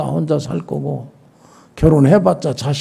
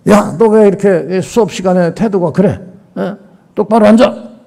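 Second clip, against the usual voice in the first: stern, raised-pitch telling-off; acted teacher's scolding; 5 semitones higher than usual. Teacher to student misbehaving in class, mock-stern scolding. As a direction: play a teacher pulling a student up.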